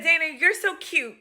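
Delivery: high-pitched admiring coo; acted sweetness; sweet compliment. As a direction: imitate a patient gushing affectionately. Acts patient's compliment.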